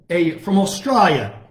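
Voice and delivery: "Australia" said with a broad Aussie "ah", Austrahlia; a shaky try at an Australian accent on "from Australia"; weak Australian accent that drifts a little British; attempted Australian accent. Shown as a demonstration. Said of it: "Can't do a very good Australian accent".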